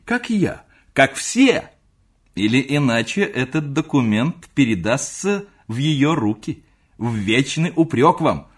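high, loud, slow teasing threat; gleeful young nephew. Acted. High teasing nephew. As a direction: nephew refuses to return letter until uncle confesses, high and loud.

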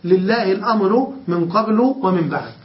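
قبل as qablu, بعد stopped at the pause; short u on قبل, rest on final بعد; fixed damma reading. Shown as a demonstration. Teacher citing the seven readers, قبل ending in u. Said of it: "فيبنيان حينئذ على الضم".

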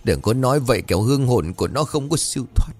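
put-on old aunt tearfully warning her niece; tearful pleading. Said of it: "mặt mũi tái nhợt lắc đầu rồi mếu máo".

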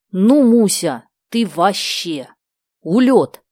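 thrilled, punching the exclamations; delighted. A narrator's reading. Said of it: "с восторгом проговорила".

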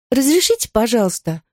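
put-on high, light childlike repeat; agreeable echo. Girl innocently repeating the teacher's correction. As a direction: chirp it back politely. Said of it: "согласилась Мадлен".

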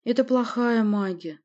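slow, high, regretful voice; mildly sorrowful young woman; sad, disappointed. Acted. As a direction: say it slowly with disappointment. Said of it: "сказала она грустно и разочарованно".

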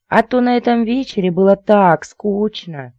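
high, whining squeal; thin squeally voice. A narrator's reading. Lady back from a dull party, squealing her complaint. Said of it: "тонкий визгливый голосок".

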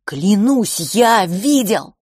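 desperate shout at his brother. A narrator's reading. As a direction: yell it, fist to chest. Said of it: "закричал Франц".

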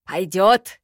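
can't believe his eyes; amazed. A narrator's reading. Nanga sees the black mail, amazed. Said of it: "не веря своим глазам, пробормотал Нанга".

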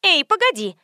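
high, sharp interjection; interrupting. A narrator's reading. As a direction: cut in to stop the other speaker. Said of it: "остановила меня светская львица".

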